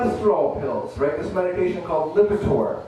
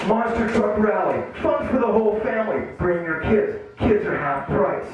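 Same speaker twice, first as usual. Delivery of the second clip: monster truck ad; 3 semitones higher than usual. Pretend. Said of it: "doing this commercial".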